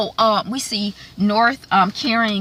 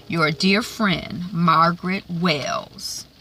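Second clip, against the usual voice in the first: Quig's menace; much slower than usual. Retold or imitated. Retelling Quig taunting Emily, slow and sly. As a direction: drag it out like a smug villain. Villain Quig's reply retold.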